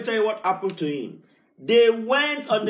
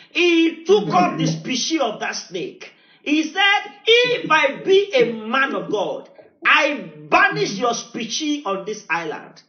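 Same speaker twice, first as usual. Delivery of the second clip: mock proclamation; 4 semitones higher than usual. Preacher acts out saint's banishing.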